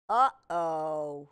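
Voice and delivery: character's uh-oh. Acted. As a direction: sound the alarm gently. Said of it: "Why is he saying, "Uh-oh"?".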